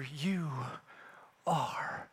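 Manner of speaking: soft, breathless words fading almost to a whisper; hushed forgiveness. Retold or imitated. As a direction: speak it gently through tears, barely voiced. Elder kneels, forgiving in tears.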